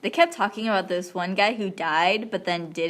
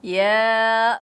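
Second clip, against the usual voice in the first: loud yell; 2 semitones higher, 6 dB louder than usual. Acted. Childish yes-no argument.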